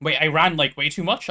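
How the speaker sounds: winded after running; out of breath. Real, not acted. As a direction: talk out of breath. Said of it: "I'm out of breath".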